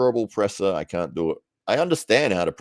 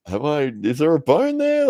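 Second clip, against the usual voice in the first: alarmed; 9 semitones higher, 5 dB louder than usual. Retold or imitated. Retelling asking about the bone.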